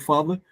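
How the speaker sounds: father with FA prominent; stress on first syllable. Shown as a demonstration. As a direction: hit FA in father, weaken "ther". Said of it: "you can say the fa".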